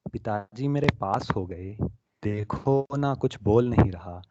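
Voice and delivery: emotional Hindi poetry recital; heartfelt recitation of a poem about a lost mother. Acted. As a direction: recite the poem with feeling to an audience. Recites his poem Sapna.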